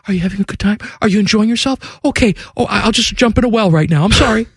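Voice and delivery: high, pleading, apologetic mock voice; mock needy local. Anxious Columbus host asking visitors, high pleading. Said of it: "We, though, have to ask everybody".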